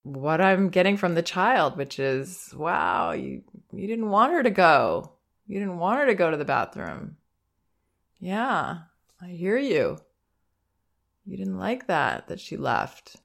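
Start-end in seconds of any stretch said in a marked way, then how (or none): 2.5-13.2 put-on gentle, raised voice naming the child's upset; soft acknowledging. Shown as a demonstration. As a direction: comfort a crying toddler calmly. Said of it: "All I say is".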